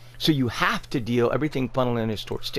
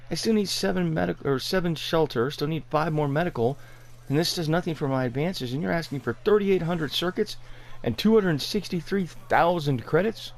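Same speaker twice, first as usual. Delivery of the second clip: indignant rant; 4 semitones higher than usual. Real, not acted. Ranting at vendor's prices.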